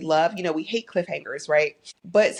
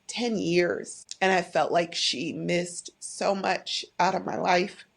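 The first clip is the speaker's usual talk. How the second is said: getting emotional; slower than usual. Real, not acted. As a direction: hold back the tears as you say it. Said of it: "I'm getting emotional".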